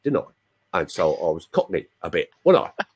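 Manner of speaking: chatty London Cockney; Cockney with cheeky tag questions; Cockney accent. Shown as a demonstration. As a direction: slip into a Cockney lad's speech. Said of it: "I picked up a London accent".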